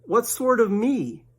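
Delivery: high, slow puzzled rabbit; Rabbit's voice. Acted. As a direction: drag the question out suspiciously.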